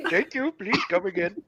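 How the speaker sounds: put-on Indian accent. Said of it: "that Indian voice".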